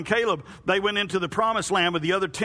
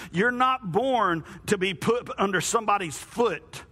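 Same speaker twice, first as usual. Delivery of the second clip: booming motivational speech; 4 semitones lower than usual. Shown as a demonstration. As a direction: build it like a motivational speaker. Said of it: "I sound like a motivational speaker".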